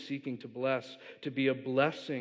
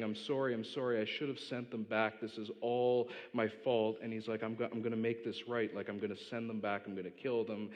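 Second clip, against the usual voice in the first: soft, hushed tearful apology; a touch of sobbing regret, understated; mild retold crying; 3 semitones lower, 6 dB quieter than usual. Spider-Man over his dying aunt, softly tearful. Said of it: "He's crying".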